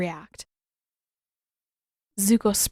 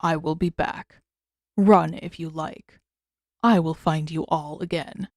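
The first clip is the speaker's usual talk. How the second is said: deep rich creature voice; 3 semitones lower than usual. Acted. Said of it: "in a deep, unnervingly rich voice".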